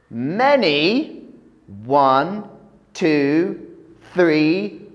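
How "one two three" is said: building excited count. Shown as a demonstration. Counting rabbits for kids.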